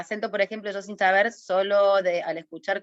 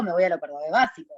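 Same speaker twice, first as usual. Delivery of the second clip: Córdoba accent; faster than usual. Shown as a demonstration. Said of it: "si quiero irme a lo cordobés básico".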